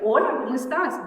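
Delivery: bright upbeat hello; cheerful, light, quick greeting; chirpy greeting. Shown as a demonstration. Expert demos the wrong tone for bad news, chirpy. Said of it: "No, digo".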